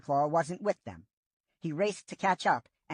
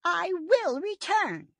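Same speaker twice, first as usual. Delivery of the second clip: slow, higher and a touch louder, firm; growling old she-cat; 14 semitones higher, 3 dB louder, slower than usual. A narrator's reading. Yellowfang insisting the apprentices trust her, slow growl. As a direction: press every word home with grit. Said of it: "growled Yellowfang".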